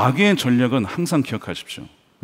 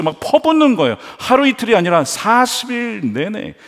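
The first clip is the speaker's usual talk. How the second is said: usual speaking voice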